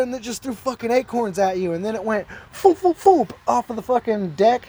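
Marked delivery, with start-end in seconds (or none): 2.5-3.3 imitated whoosh. Imitates acorns flying past.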